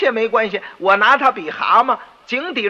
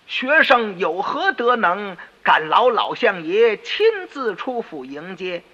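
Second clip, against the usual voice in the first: mock humble; slower than usual. Boy greets minister with mock humility.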